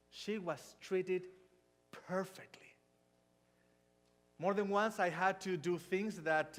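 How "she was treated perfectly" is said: whispered, drawn out perfectly. Real, not acted. Telling how his wife was treated, a whisper. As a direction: let perfectly fall to a whisper.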